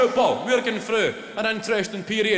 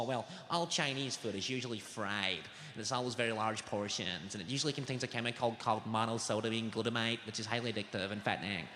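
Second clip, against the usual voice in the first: lower, softer prim expert voice, quicker at the end; lightly voiced know-it-all nutritionist; mock nutritionist voice; 8 semitones lower, 11 dB quieter than usual. Comic reading out a nutritionist's answer, mock expert voice.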